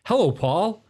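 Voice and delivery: high, swooping Canadian-Scottish twang; hammed-up emigrant uncle, half Canadian, half Scottish; Canadian-Scottish hybrid accent. Uncle back from Canada greeting his nephew, exaggerated Canadian-Scottish accent. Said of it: "pure weird Canadian Scottish hybrid".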